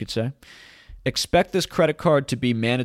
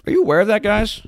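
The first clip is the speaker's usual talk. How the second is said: sarcastic aside; 11 semitones higher, 7 dB louder, faster than usual. Acted.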